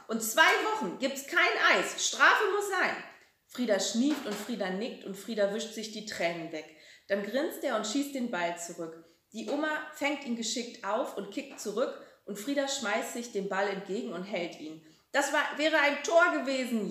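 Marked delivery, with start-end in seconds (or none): 0.1-3.0 mock stern. Grandma playful mock sentence. 15.1-16.9 panting. A narrator's reading. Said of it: "japst die Oma".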